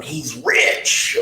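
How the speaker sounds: teasing jeer at someone's wealth; mocking. Coworkers ribbing him about his money, lightly mocking. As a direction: lightly imitate the guys poking fun. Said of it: "you guys make fun of me going".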